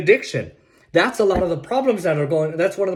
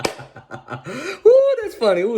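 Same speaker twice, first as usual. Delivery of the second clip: sarcastic ooh; 8 semitones higher, much slower than usual. Real, not acted. Sarcastic high laugh.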